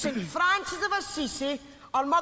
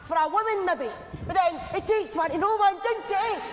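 put-on glasgow street accent. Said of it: "earlier reader: glasgow street accent".

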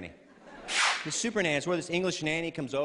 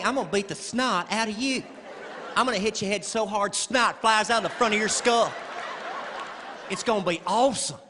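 mom's threat; 5 semitones higher than usual. Retold or imitated. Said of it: "My mom would tell me".

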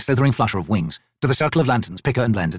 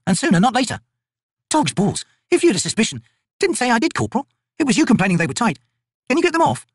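higher, brisk soldier banter; female soldier voices; 10 semitones higher than usual. Acted. Two soldiers bickering over cursed armbands, higher and brisk. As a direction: rib your fellow soldier.

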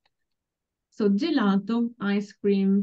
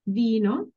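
"vino" stressed on the I. Shown as a demonstration. Teacher pointing out the accent, stressed I in "vino". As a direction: lean on the first vowel of "vino". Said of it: "the accent is on the I".

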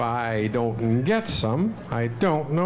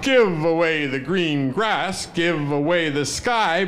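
louder, calling it out; rather loudly; 3 semitones higher than usual. Shown as a demonstration. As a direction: call out to the whole room. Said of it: "say rather loudly".

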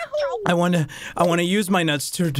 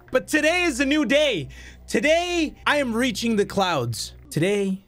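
self pep talk; 3 semitones higher than usual. Real, not acted. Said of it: "words of encouragement to myself".

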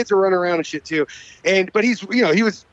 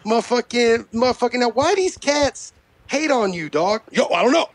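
agitated rapper impression, pitched up; mock rapper's interview voice; 4 semitones higher than usual. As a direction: imitate a riled-up rapper rambling. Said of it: "the only impression I can fucking do".

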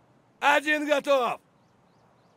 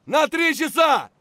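shouted callout; 4 dB louder than usual. Acted. Soldier calling enemy position, shouting. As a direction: yell the direction.

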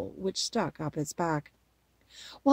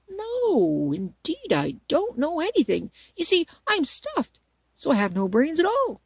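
sad; 8 semitones higher, 4 dB louder than usual. A narrator's reading. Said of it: "he answered sadly".

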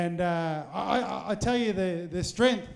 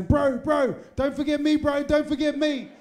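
imitating Leslie; 7 semitones higher, 4 dB louder than usual. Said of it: "that Tongan English French accent of his".

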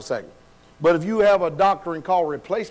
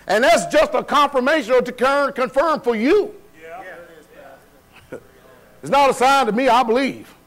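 forceful preaching; 3 semitones higher than usual. Real, not acted. Preaches to the congregation.

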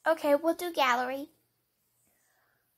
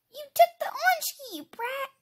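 mock scolding; 8 semitones higher, 5 dB louder than usual. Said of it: "I'm just joking".

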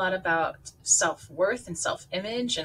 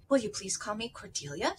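eager plea; 5 dB quieter than usual. Acted. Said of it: "she said eagerly".

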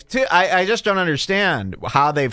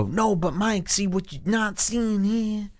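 high, soft mock reply; mock opponent; 7 semitones higher, 4 dB quieter than usual. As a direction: squeak out a lame comeback. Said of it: "And then you go".

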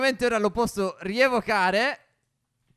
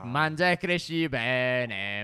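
slow, lowered, drawn-out coaxing; coaxing a pet; 6 semitones lower, slower than usual. Pretend. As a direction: croon it slowly to a baby pet. Feeding his baby dragon.

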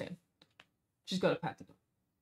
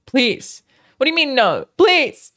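louder, higher begging please; loud mock pleading; 8 semitones higher, 10 dB louder, slower than usual. Real, not acted. Begging chat not to let her play late, loud mock plea.

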